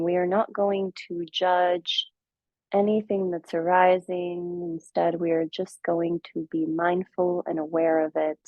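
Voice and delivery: measured meditation guide with long pauses; guided meditation. Acted. Teacher guiding listeners into their practice, calm guided meditation. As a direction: ease them gently into stillness, leaving space between phrases.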